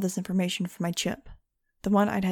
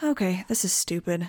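bored, uninterested tone. The narrator cuts off someone's explanation, in a bored tone. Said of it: "I said in a bored tone".

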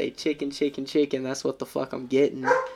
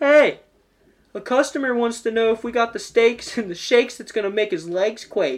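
loud, high-pitched yell calling out; 9 semitones higher, 6 dB louder than usual. Speaker acts out a woman on the phone turning away to yell: retelling her yell across the room. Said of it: "turn from the phone and yell".

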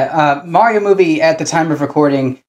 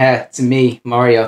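slow, drawn-out, unhurried video-game hero voice; 5 semitones lower than usual. Describing what the movie has shown so far: Chris Pratt as Mario impression. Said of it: "Chris Pratt doing little things like".

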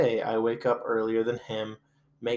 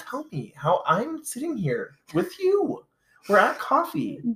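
put-on girly voice, higher pitch; 14 semitones higher than usual. Role-playing as a girlfriend at coffee with the advisor: put-on girly voice.

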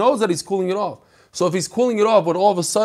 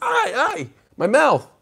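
put-on child's long, high, drawn-out wailing scream; 8 semitones higher than usual. Telling a joke about a kid who eats hot soup: imitating a kid screaming. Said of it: "he started screaming".

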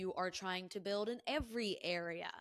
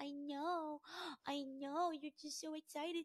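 gentle, high-pitched cutesy voice; 8 semitones higher, 5 dB quieter than usual. The speaker talks to the excited dog at the end of a recording, in a doggy voice. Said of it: "This is my doggy voice".

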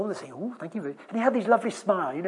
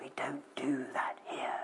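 breathy, hushed, confidential whisper; 5 semitones lower, 11 dB quieter than usual. Retelling how a chaplain leaned over to a bishop: retelling a whisper. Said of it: "leaned over and whispered".

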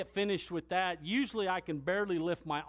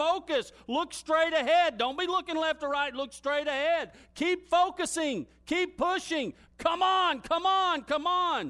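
put-on yelling in a higher pitch; 11 semitones higher, 5 dB louder than usual. Retelling a man standing over them while they keep pushing, retelling his yelling. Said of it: "And he's yelling at me".

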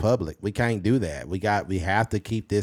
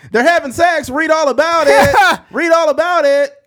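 very high, very loud, shrill, booming newsboy holler; 12 dB louder than usual. Joking about how papers were sold back in the day, calling out: old-timey newsboy voice. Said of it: "the boy had the same voice".

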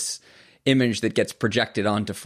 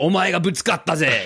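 put-on really, really angry yell, pitched up; 7 semitones higher than usual. Retelling a driver's words after a traffic bump: imitating an angry shout. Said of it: "really, really angry".

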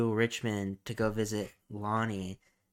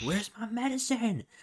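play-acted, shrill, very high screaming; 12 semitones higher than usual. Retelling a man at the pharmacy counter: imitating a man screaming. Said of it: "start screaming at the pharmacist".

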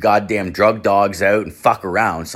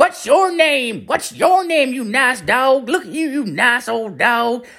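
very high-pitched, shrill, squealy voice. Retelling a male cop talking to the speaker's dog through the car window: imitating squealing at a dog. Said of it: "not yelling, but squealing".

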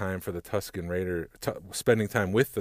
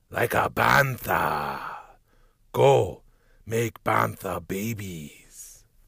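very slow, deliberate, measured voice; 2 semitones higher, 5 dB louder than usual. Doing a final impression from the Book of Boba Fett: Boba Fett voice. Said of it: "Boba Fett".

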